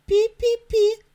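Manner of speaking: high, loud squeaking; mouse squeak. Acted. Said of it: "запищал мышонок".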